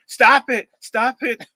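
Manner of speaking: high, amused stop it; Mother Clark laughing at the prank call, a high amused protest. Retold or imitated. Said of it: "And she's laughing".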